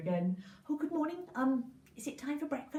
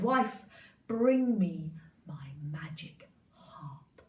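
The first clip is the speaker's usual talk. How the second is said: low, slow, hushed giant order; slow giant command; 8 semitones lower, 4 dB louder, much slower than usual. Acted. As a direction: drag out the order like a sleepy giant.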